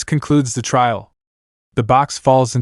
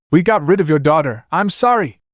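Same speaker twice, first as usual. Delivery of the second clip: confession rising higher; mild yell; 5 semitones higher than usual. Acted. Romulus confessing under pressure, mild yell. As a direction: blurt it out, voice climbing. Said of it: "Romulus yelled".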